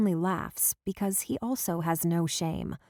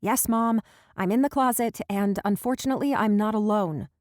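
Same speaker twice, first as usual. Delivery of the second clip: calling out; 3 semitones higher, 4 dB louder than usual. Acted. Caught, calling out to mom.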